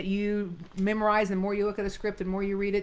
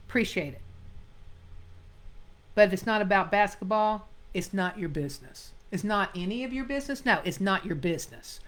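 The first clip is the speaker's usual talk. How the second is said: clipped, blunt brush-off; curt dismissal. Shown as a demonstration. Acting teacher voices Eddie telling him to butt out, curt. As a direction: shut him down, no softening. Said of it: "You can tell that especially on the ending".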